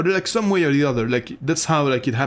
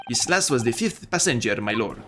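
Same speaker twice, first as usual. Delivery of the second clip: lightly put-on Irish brogue; attempted Irish accent; 3 semitones lower than usual. Witness confirming to the judge, attempted Irish accent. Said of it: "doing an actual Irish accent, which I'm trying to do".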